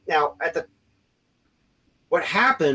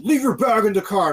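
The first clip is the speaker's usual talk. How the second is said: higher, louder mock cop shout; insistent mock bark, pitched up; retold barked order; 8 semitones higher, 5 dB louder than usual. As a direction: imitate an officer shouting an order. Retold officer repeating order, escalating.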